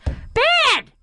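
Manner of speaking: high, emphatic Brooklyn mom; mother's Brooklyn accent. Retold or imitated. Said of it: "her accent. She's got a Brooklyn accent".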